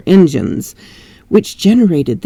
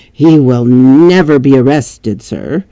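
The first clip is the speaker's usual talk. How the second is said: servant; 4 semitones lower than usual. Acted. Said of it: "servant voice".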